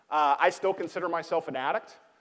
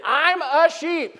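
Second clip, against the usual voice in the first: laughing through it; 11 semitones higher, 5 dB louder, much slower than usual. Shown as a demonstration. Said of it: "Now say it like you mean it".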